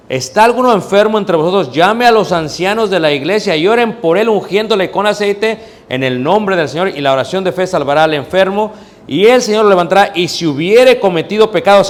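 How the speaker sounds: high, loud scripture proclamation; fervent preacher reading; preaching. Real, not acted. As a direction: ring out the verse to the church. Preacher reads James five.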